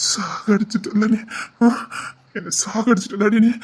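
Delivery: heartbroken crying. Acted. Heartbroken husband blaming wife.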